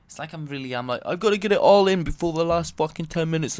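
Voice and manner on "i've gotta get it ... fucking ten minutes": loud, raised, urgent rant; hammed-up panicky rant. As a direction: rant as if time is running out. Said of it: "Why am I ranting so much?".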